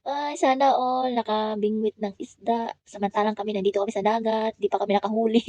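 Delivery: playful teasing yell across the beach; teasing shout. Retold or imitated. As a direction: cousins teasing the girl from the water, mock shout. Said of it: "napasigaw yung mga pinsan niya".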